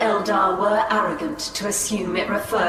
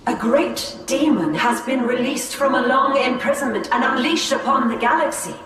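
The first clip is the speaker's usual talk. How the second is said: indignant rebuke; 4 semitones higher than usual. Acted. Farseer answers the gloating stranger, rising indignation. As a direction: push back hard against the taunt, voice climbing.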